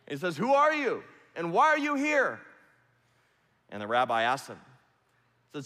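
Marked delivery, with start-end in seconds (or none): 0.4-2.4 much higher and louder barked demand; booming soldier shout. Retold or imitated. Roman soldier repeating his challenge to the rabbi, booming shout. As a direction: shout it down from the gate. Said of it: "his voice boomed out".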